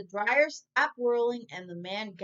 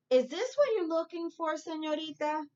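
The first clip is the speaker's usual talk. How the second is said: manager voice; 7 semitones higher than usual. Acted. Manager offers the lost bear.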